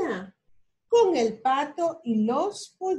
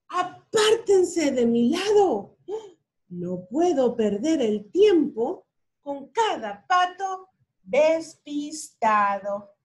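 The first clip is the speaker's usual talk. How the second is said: bossy truck; 3 semitones higher, 4 dB louder than usual. Acted. Truck shouts at duck.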